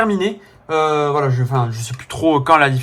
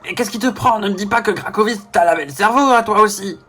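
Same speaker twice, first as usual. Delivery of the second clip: higher game character voice; voix de personnage; 4 semitones higher than usual. Acted. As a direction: question a comrade in a raised put-on voice. (voix de personnage jouée, plus aiguë)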